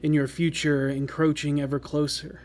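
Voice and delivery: eerie, measured scene narration; story narration. Acted. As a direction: set a haunting scene. Game master's scene setting.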